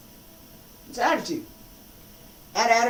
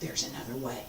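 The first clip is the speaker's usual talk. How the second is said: much softer, low murmur of a calm inner voice; little inner voice; 10 semitones lower, 15 dB quieter than usual. Shown as a demonstration. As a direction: let the quiet voice inside speak. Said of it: "Little voice".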